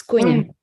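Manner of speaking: Cunha as "KOON-ya", first syllable stressed; surname demonstration. Shown as a demonstration. Presenter repeating her surname for moderator, Cunha said as "KOON-ya". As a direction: show how Cunha goes, with nh like ny. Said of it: "pronounce your last name".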